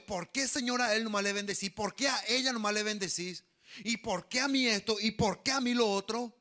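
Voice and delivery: acted indignant complaint; quarrelling with God. Angry believer arguing with God over others' blessings, mock complaint. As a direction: protest in a run of insistent questions. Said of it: "Y me peleo con Dios".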